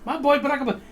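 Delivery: mock Sicilian accent. Host teasing his Sicilian guest about Obama, imitated Sicilian accent. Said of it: "I'm gonna say it the way you say".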